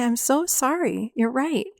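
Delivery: slow, slightly lifted, sympathetic apology; tender apology. Shown as a demonstration. Adult validating the hurt inner child, tender apology. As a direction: draw out the sympathy gently.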